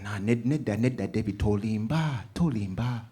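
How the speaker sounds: "nid that, tolimba" said in Luganda; Luganda scolding. Retold or imitated. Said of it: "which in Luganda is".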